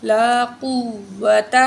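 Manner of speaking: heavy-letter recitation; heavy qaaf. Shown as a demonstration. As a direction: thicken the qaaf in قوت. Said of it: "قاف کو موٹا کر کے پڑھیں گے".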